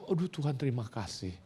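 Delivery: soft, relieved prayer; heartfelt thanks. Retold or imitated. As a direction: breathe out gratitude softly to God, retold. Acts tearful thanks to God.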